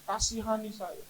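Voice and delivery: loud, high cry for help, easing at the end; shouting. Retold or imitated. Covid patient shouts to Jesus for help. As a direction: shout out, then plead. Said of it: "Saya teriak".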